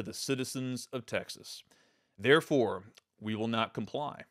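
measured, official statement read, slowing on the last line; lightly voiced formal declaration, like a governor at a podium. Answering Abbott's tweet with his own measured official statement. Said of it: "Here's my statement".

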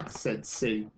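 measured, expressive picture-book reading; storyteller reading to children; story narration. Acted. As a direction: read a story aloud to a class, with lift on the key words.

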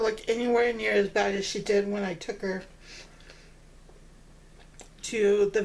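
talking while chewing; mouth full. Real, not acted. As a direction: hand near mouth. Seen 2: Hand with food at mouth until 0.6s, then lowered while talking.

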